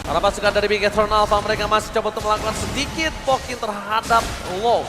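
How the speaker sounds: esports caster. Real, not acted. Steady live play-by-play commentary.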